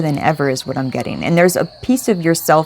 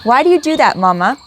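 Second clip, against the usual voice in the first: mock scolding the dog; 7 semitones higher than usual. Real, not acted. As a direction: tease the dog in a raised voice.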